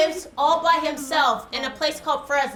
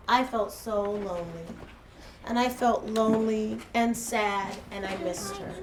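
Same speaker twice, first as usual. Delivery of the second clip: lower, softer, subdued recollection; gently sad; 5 semitones lower, 6 dB quieter than usual. Retold or imitated. Teacher recalls missing best friend, gently sad. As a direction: let it sink quietly, a touch forlorn.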